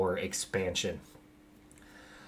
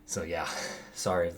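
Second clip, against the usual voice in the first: normal talking voice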